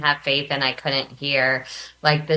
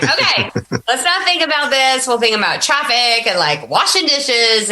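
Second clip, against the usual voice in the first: nervous self-talk; 7 semitones higher than usual. Retold or imitated. Retold trying not to cry.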